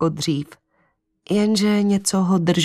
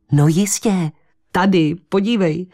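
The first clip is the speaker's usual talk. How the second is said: eager blurt; 3 semitones higher than usual. Acted. Estela shows Henry the spot on the bone, eager. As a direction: blurt it out with delight. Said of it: "vyhrkla s nebývalým nadšením".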